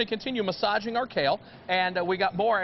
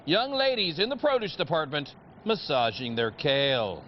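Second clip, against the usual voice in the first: mock scary news report. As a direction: report a silly dilemma as grave news. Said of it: "I'll pretend it's something very scary".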